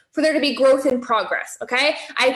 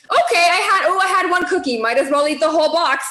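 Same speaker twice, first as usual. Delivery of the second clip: mock inner excuse; 2 semitones higher, faster than usual. Acting out self-justifying inner voice.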